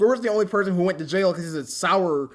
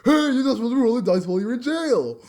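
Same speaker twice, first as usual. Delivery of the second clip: mock scolding retake; 5 semitones higher, 5 dB louder than usual.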